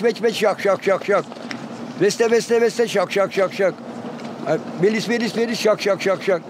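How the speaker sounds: chirped calls ending in clicking şak; chirp, then snap the şak notes; demonstrating full goldfinch phrases. Retold or imitated.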